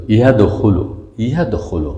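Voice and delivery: "یدخلو" with a light tongue-tip d; plain light dal. Shown as a demonstration. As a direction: keep the d thin in "یدخلو". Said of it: "دال، دال از اون". («یدخلو» با دال ساده)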